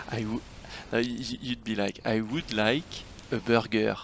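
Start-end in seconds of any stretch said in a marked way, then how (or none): 2.1-4.0 put-on French accent. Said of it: "heavy French accent".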